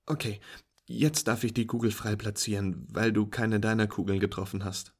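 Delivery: walk a beginner through it brightly; patient instructing friend. Acted.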